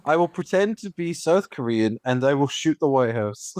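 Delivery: lightly voiced goofy villain; a hint of a dopey mastermind; mock villain voice. Podcaster mocking the movie's villain, mild goofy voice. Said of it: "his mastermind is".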